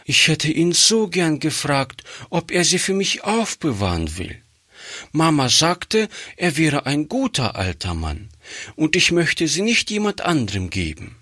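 put-on a small orphan girl asking earnestly for a favour; pleading child voice, pitched high and hurried; little girl pleading.

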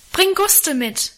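high, drawn-out call; calling after someone. A narrator's reading. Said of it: "rief ich ihm in die Dunkelheit nach".

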